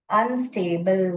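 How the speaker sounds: अनस्टेबल read slowly, prefix first; teacher modelling; careful read. Shown as a demonstration. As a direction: build अनस्टेबल from स्टेबल. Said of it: "और ये क्या है?".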